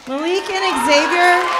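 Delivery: loud call. Real, not acted. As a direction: call them out to the room. Calling students to stand.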